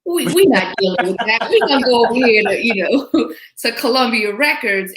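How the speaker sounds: a hint of a proud father with a laugh at the end; imitating a singer's father. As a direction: play her dad brushing Motown off. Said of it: "I could see him saying".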